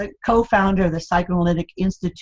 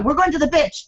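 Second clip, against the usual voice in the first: put-on light Spanish accent, "bitch" for beach, higher pitch; imitating mom's accent; 9 semitones higher than usual. Daughter imitating mother answering the kids, light Spanish accent. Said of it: "she always went to the bitch".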